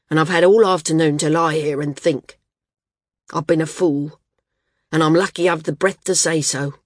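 lightly voiced injured flyer; gruff, frank Garth. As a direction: confess frankly, with a hint of rueful gruffness. Voices Garth confessing to Srella.

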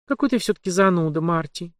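fast, sighing, fading on Марти; sad sigh. Acted. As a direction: sigh it out sadly. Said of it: "печально вздохнула пленница".

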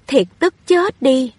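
the widow flares up at the accusation, indignant; angry outburst. Acted. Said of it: "vừa thẹn vừa tức".

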